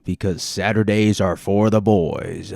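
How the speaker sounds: a hint of a slow, loud bro; drawn-out bro slogan; mock bro voice. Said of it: "I don't know why I became".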